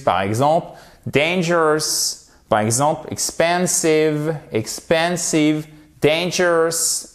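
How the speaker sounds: expensive and dangerous said slowly and clearly; dangerous as dane-jeurous, drawn out; slow model pronunciation. Shown as a demonstration. Teacher modelling English words for students. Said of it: "slow model pronunciation of words".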